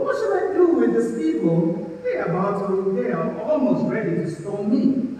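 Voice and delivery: high-pitched acted plea; crying out. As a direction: play Moses crying out to God for help. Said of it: "Moses cried to the Lord".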